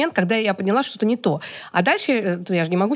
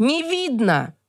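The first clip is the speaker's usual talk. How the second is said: offhand, dismissive, complaining tone; 4 semitones higher than usual. Retelling how a participant complained while she wrote on a flipchart: imitating a participant's tone. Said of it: "Вот таким тоном".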